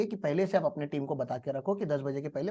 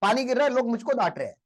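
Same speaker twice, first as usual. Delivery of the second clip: mock loud blurt; 4 semitones higher than usual. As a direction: blurt it out to the boss, half-shouting. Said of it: "बोला एकदम जोर से". (ऊँची आवाज़ में धीमे-धीमे चिल्लाकर बोलना)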